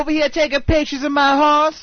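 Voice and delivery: high put-on Welsh farmer voice; mock Welsh accent. Co-host does a high mock Welsh accent as the owner. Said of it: "I'll do my Welsh accent".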